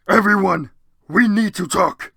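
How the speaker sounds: loud, slow, booming announcement; Hagrid voice. Acted. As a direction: call everyone together. Hagrid speaking in story.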